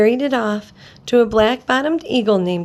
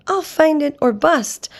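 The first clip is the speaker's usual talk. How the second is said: determined cry; 5 semitones higher than usual. Acted. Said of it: "cried Horton".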